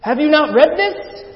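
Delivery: high, very loud, drawn-out exclamation; acted incredulous cry at full voice; astonished shout. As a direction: shout the question in amazement, high and slow. Converted man exclaims to the preacher.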